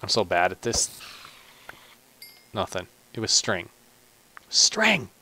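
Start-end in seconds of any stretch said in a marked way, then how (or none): 4.5-5.1 high, surprised squeal of the word; surprised yelp. Real, not acted. Gamer reacting to a string drop, high surprised squeal.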